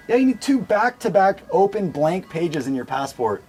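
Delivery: a hint of a mock African accent on an official. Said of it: "they got this crazy African accent".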